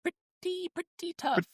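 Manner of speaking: put-on high hammy Italian accent. Joins the Italian accent bit.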